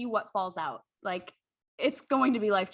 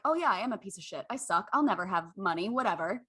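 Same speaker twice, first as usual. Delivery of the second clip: mock self-put-down; 3 semitones lower than usual. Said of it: "immediately you're like".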